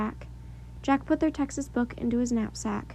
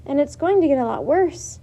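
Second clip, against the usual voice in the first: shouted reply; 3 semitones higher, 5 dB louder than usual. A narrator's reading. Shouting over storm.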